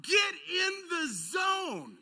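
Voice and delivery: slow, loud, high mock coach shout; coach yelling. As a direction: drag out each word like a yelling coach. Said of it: "and he's like".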